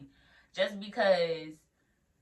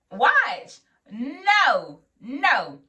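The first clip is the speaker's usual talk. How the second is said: incredulous high no; 7 semitones higher, 9 dB louder, much slower than usual. Real, not acted. New nurse realising she won't just watch, high incredulous squeal.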